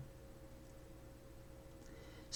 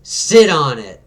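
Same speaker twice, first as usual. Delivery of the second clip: retorting; 3 semitones higher, 5 dB louder, slower than usual. Acted. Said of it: "And it's like".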